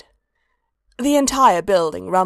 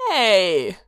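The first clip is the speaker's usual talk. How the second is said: vaguely affronted; 3 dB louder than usual. Acted. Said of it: "vaguely affronted".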